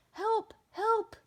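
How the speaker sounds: high, loud call for help; urgent call. A narrator's reading. Policeman calling firemen for help, high urgent call. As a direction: call out urgently over the radio.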